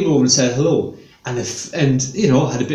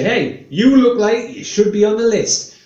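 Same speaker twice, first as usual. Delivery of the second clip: cheeky accusation; 4 semitones higher than usual. Shown as a demonstration. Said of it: "just say".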